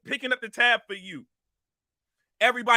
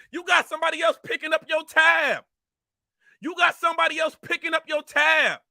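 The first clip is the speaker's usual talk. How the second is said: higher, shouted taunt; angry shout; 4 semitones higher than usual. Real, not acted. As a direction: yell the insult twice. Angry rant at a rival.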